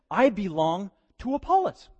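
lightly voiced smug follower; faction member. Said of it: "this faction was saying".

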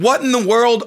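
high, loud mock outrage; all caps email. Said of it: "all caps, question marks".

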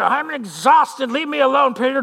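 fed-up, worn-out rower protesting; exasperated protest. Acted. Tired rower to Peter who urges him on, exasperated. Acted quarrel in the boat.

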